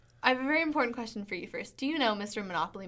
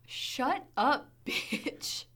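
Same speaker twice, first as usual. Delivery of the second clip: playful fake-aggressive snap that breaks into a laugh; teasing mock anger; 3 semitones higher, much slower than usual. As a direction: pretend to be mad at a friend while laughing. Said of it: "that was very aggressive".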